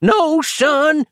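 put-on high shout from an old man; old man yelling. A narrator's reading. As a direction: yell it to stop him. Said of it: "yelled the pensioner".

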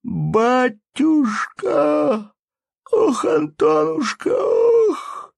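high, slow sobbing wail; anguished cry. A narrator's reading. Varvara reaches for her husband as the carts leave, sobbing wail. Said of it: "вскричала Варвара".

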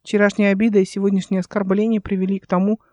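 ordinary delivery

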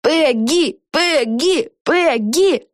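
high-pitched, rhythmic calling of the name; cheering shout. A narrator's reading. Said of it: "кричала миссис Клаттербакс".

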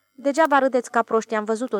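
glowering defiance at the mockers; gloomy. Ilie insists to the laughing tractor drivers, sullen and stung. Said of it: "zise el mohorât".

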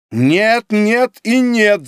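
loud, slow, high refusal; agitated shout. A narrator's reading. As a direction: hammer out each no. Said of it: "закричал вдруг Греннер". (громкое возбуждённое «нет» с растяжкой)

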